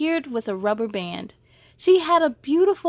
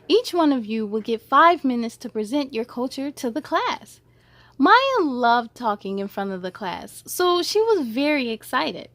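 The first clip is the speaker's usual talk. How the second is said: gentle, lively storybook narration; reading to children. A narrator's reading. Reading a school story aloud to young kids, gently animated. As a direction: read it like a bedtime picture book. Reads picture book to children.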